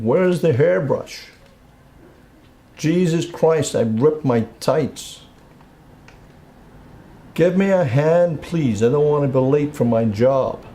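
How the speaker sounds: high-pitched, slow imitation of a flustered wife; retold shouting. Wife rushing for her new job, imitated high calling out. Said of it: "she starts shouting".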